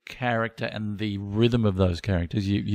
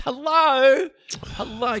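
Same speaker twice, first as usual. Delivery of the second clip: sarcastic hello; 13 semitones higher, much slower than usual. Pretend. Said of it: "mock calling out to Australia".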